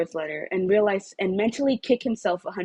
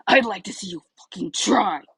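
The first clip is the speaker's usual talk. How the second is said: angry retort. Acted. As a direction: throw the dare back angrily. Bakugo yelling back at Shoto.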